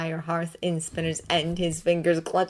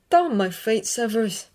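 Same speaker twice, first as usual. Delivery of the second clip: muttered curse; 5 semitones higher than usual. A narrator's reading. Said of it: "Remus muttered".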